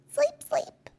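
high, whispered coo. Acted. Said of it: "he cooed".

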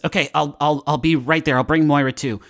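nervous agreement climbing to high, clueless questions; Jake. Acted. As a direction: agree meekly, then squeak the questions high. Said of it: "Jake, uh, says".

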